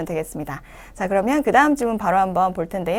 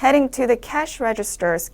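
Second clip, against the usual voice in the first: 1 slow model reading; 2 semitones higher, much slower than usual. Shown as a demonstration. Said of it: "이어서 읽어주시면".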